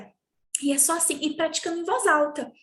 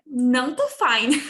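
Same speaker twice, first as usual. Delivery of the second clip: louder playful complaint; mock student whine; 2 semitones lower, 6 dB louder than usual. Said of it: "eles falam".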